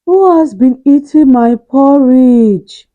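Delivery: medium-sized voice. Acted. Mother Bear checking her porridge bowl, medium voice. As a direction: voice Mother Bear, middling and firm. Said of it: "said in a medium-sized voice".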